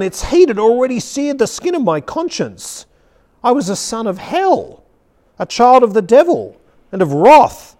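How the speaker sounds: impassioned sermon reading; preaching. Shown as a demonstration. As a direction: preach it with dramatic weight on the key phrases. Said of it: "preach it to you, really, as I read".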